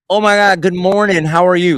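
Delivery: high, bright-eyed sweet greeting from the wife. Retold or imitated. Wife coming out of the bedroom greeting her husband, sugary sweet and high. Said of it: "Like, so sweet".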